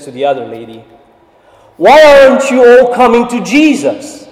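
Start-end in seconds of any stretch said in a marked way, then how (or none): 1.8-4.2 much higher and louder, ringing out joyfully; loud beautiful voice. Retold or imitated. African lady calls to her friend, loud and joyful. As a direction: call it out to the street, bright and glad. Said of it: "with a loud, beautiful voice".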